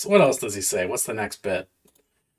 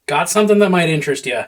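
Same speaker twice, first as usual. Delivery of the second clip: sly huckster voice; 5 semitones higher, 4 dB louder, much faster than usual. Retold or imitated. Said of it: "a line from a Hearthstone card, the Undercity Huckster".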